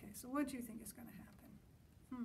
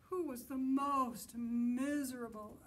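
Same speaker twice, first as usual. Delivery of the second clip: dramatic narration; 8 dB louder than usual. A narrator's reading. Reader dramatizes monsters' contest.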